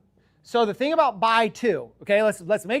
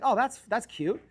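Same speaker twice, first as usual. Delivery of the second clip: amused, through a laugh; a little laugh on the words; laughing while quoting yourself; 2 semitones higher, 4 dB quieter than usual. Retold or imitated. Amused reaction to sales.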